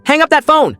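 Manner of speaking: very high, loud command; furious father's shouted order; roar. A narrator's reading. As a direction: roar it, pitch shooting up. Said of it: "Dad roared".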